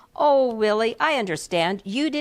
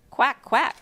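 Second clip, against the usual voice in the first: higher pleased little quacks; approving duck; 5 semitones higher than usual. Acted. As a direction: quack like a content duckling. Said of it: "said the little duck with approval".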